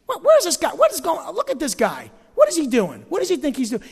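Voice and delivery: mock indignant questioning; questioning demo. Shown as a demonstration. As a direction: challenge the leader like a skeptic. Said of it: "It's questionings".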